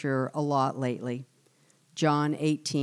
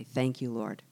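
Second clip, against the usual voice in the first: quiet thanks; 6 semitones lower, 5 dB quieter than usual. Acted. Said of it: "I'm gonna change my attitude, say".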